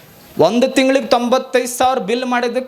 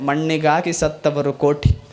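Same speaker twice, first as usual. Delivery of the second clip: vachana recitation; 3 semitones lower than usual. Shown as a demonstration. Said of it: "ಗುಹೇಶ್ವರ್ ಅಂತಾರೆ".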